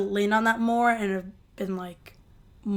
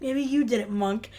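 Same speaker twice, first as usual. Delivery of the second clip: lightly imitated accusation, slightly raised then dropping; mild mock accusation. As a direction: toss the blame over, less dramatically. Repeats Harold's accusation, milder.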